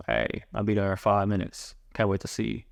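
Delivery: low, slow, sleepy seductive voice; sultry phone voice, from the diaphragm. Shown as a demonstration. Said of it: "your seductive voice ... low, slow, and from the diaphragm ... sleepy voice".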